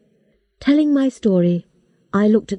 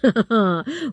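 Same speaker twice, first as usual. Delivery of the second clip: laugh. A narrator's reading. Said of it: "Buff laughed".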